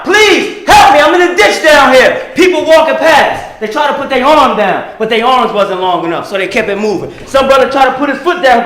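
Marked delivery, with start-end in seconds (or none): 0.0-2.3 mild mock yell for help; calling up from a ditch, half-acted; retold yelling. Man in ditch calling to passersby, mild mock yell. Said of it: "he's yelling out".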